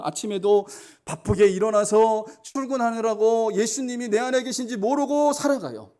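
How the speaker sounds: climbing sermon cadence; fervent preaching. Acted. Building sermon passage.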